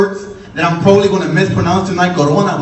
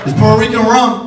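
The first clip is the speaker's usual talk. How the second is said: hype shout; 4 semitones higher than usual. Real, not acted. Comic to the bar crowd, a proud shout. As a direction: sell the rum to the crowd.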